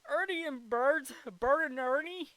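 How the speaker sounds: high, loud giggly voice, laughing through the names; giggling. Real, not acted. Amused by the names Ernie and Bert, giggling high and loud. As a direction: laugh as the Sesame Street names sink in.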